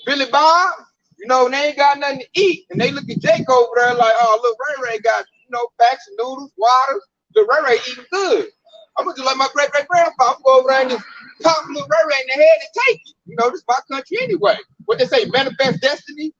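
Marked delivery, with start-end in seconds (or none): 4.2-14.6 lightly voiced redneck, faster toward the end; scheming, half-mock, getting greedy; a hint of a trigger-happy local; hungry armed neighbor.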